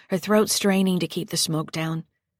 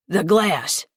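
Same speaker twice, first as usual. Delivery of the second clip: louder barked order; shout; 5 dB louder than usual. Acted. Lester shouting to Patty mid struggle, urgent shout. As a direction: call for the glass urgently. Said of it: "he shouted to Patty".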